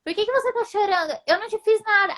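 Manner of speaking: high mocking landlady voice; landlady mocking the crying guest, high and taunting. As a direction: tease it up high, jeering. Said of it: "começou a rir".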